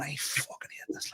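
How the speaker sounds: muttered misery. Retold or imitated. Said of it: "with the sorest head on me going".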